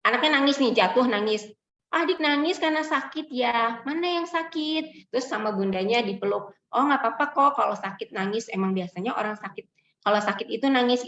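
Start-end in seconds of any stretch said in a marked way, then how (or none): 1.9-5.1 gentle parent. Retold or imitated. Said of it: "akan bilang". 6.7-11.1 soothing, accepting parent voice; comforting parent. Shown as a demonstration. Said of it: "itu emotion coaching parent".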